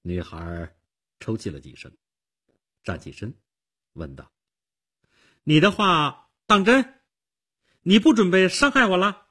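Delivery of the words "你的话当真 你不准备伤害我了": put-on high, loud girl's voice; girl's anxious question. A narrator's reading. Girl asks Nick for reassurance, questioning high. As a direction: ask in a pitched-up girlish voice.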